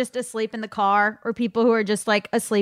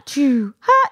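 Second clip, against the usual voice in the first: fake sleep breathing; 4 dB louder than usual. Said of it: "how people fake sleep where they go".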